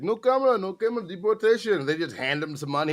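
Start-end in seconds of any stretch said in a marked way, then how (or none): 0.0-1.8 high, loud mock Mexican accent. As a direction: imitate a Mexican worker pleading, pitched up. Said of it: "He's like, he's like".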